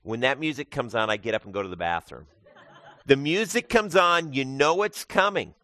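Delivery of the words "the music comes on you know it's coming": laughing. Real, not acted. Joking about scary movie music.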